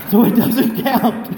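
laughing loudly through the words; loud laughing storytelling. Real, not acted. Laughing while telling.

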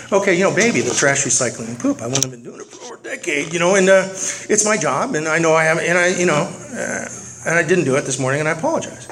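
halting, drawn-out apology with pauses; mock-patient slow explanation. Husband repeats his apology to his wife, mock-patient slow explanation. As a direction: spell it out with strained patience. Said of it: "Apparently you have to talk slowly".

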